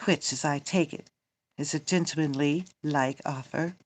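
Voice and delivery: emphatic, declaimed stage dialogue; theatrical Shakespeare reading. Acted. Reading Romeo and the nurse aloud, theatrical. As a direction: play it out like verse on stage.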